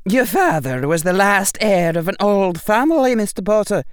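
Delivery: high, loud, stern teacher's voice; stern witch professor. A narrator's reading. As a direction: speak like a strict old witch addressing a boy. McGonagall voiced by narrator.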